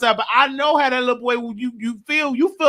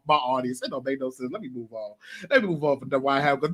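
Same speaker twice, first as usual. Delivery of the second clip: fading voice; 8 semitones lower, 8 dB quieter, faster than usual. Real, not acted. Trailing off, voice fading.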